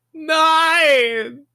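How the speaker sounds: high-pitched, stretched by a bad line; glitchy connection. Real, not acted. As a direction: voice warped by lag. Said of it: "Wie ihre Worte langgezogen wurden und hochgepitcht".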